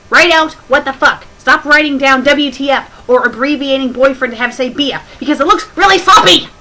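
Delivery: loud, high, fast scolding; furious rant. Real, not acted. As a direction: tear into the author at full volume. Ranting at the fanfic writer.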